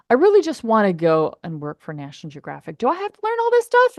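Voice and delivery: mock whining about technical stuff; whiny younger self. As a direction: complain like a bored kid.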